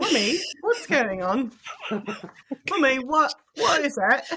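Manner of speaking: puzzled, confused little cat voice. Voicing a cat reacting to screaming: imitating a confused cat. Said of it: "My cat is like".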